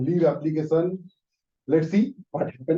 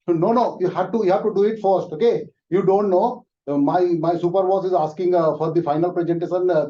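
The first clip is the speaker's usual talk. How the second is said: high, loud, impatient boss cutting him off; 4 semitones higher, 7 dB louder than usual. Acted. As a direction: shut him down and demand the work, loudly. Boss refuses leave.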